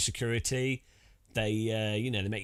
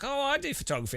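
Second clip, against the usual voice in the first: imitated woman; 13 semitones higher, faster than usual.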